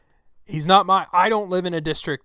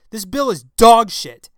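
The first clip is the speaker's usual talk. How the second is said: slow, furious shout, every word hammered; screaming; 6 semitones higher, 12 dB louder than usual. Real, not acted. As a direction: yell it out slow and enraged. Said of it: "I'm screaming into the mic".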